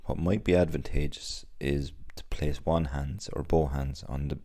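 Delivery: unhurried body scan voice, long pauses between phrases; guided meditation. Acted. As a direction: gently guide them through the body, leaving space after each instruction.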